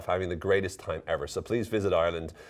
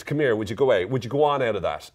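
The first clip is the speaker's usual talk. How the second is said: lively Irish accent, higher pitched; Irish idiom delivery; 3 semitones higher, 4 dB louder, faster than usual. Shown as a demonstration. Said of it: "separate it from the Irish accent".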